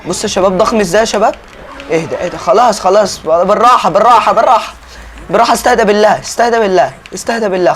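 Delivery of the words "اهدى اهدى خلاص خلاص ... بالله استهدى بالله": pleading with an agitated animal, higher voice; raised, insistent "easy, easy"; urgent calming. Pretend. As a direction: urge it to settle, repeating insistently. Trying to settle a bucking horse.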